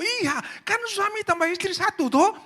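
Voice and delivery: very high, loud mock voice; pastor pressing. Pastor pressing the wife on husband and wife being one, very high and loud. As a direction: push the point in a squeaky high tone.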